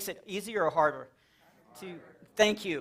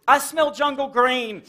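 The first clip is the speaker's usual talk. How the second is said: put-on slow dazed kid; 5 semitones higher, 6 dB louder, slower than usual. Dazed kid after crayon breaks.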